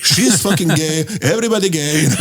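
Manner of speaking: put-on drunk heckler sneering in an Indian accent. Heckler talking about his girlfriend, in a mock Indian accent. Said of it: "he had this Indian accent".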